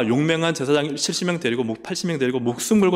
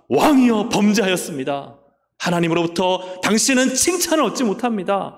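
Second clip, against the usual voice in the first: priest rebuking; 4 semitones higher than usual. Acted. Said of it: "제사장이 책망을 하는 거예요".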